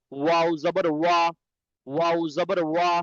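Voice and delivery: "ওয়া" formed with both lips as a w sound; lip-made sound. Shown as a demonstration. Teacher showing students the lip letters, "ওয়া" made with both lips. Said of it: "দুই ঠোঁট হইতে অ বা মিম উচ্চারিত হয়".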